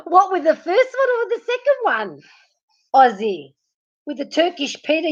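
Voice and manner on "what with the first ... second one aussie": high-pitched, squealed through laughter; really laughing, voice riding high; laughing question. Real, not acted. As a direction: ask it while cracking up. Cracking up at the innuendo.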